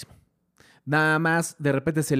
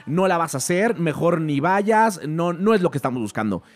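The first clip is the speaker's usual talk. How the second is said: harsh critics; 3 semitones higher than usual. Retold or imitated. The industry telling Buster he's no good, mock harsh. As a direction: mimic the crushing verdict.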